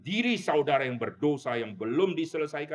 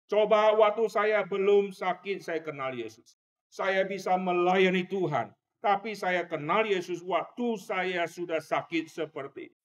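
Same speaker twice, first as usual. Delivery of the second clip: raised, anguished plea of a sick man; dying man's cry; 6 semitones higher than usual. Retold or imitated. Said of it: "itu teriakan dia yang saya dengar". (teriakan penyesalan orang sakit)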